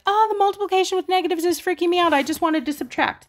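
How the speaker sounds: high, fast mock panicked student; panicky student. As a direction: squeak it out like a freaked-out kid. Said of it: "you could be the student who's like".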